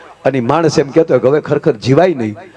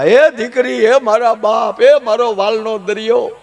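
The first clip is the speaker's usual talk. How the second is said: mock wailing; 5 semitones higher, slower than usual. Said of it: "મળ્યા રડવા".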